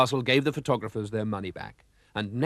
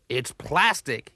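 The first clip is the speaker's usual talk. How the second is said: surprised cry; 2 semitones higher, slower than usual. Acted. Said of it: "he cried".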